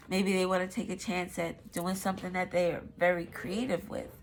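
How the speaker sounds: blocked nose, congested voice; stuffy nose. Real, not acted. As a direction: speak through a stuffy nose. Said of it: "I'm sorry, and I'm stuffy".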